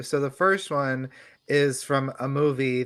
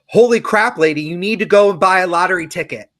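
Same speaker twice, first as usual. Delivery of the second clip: loud, fast booming voice from the sky; big booming voice; 4 semitones higher, 9 dB louder than usual. Acted. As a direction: boom it down from above, fast. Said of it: "a big booming voice speaks to her".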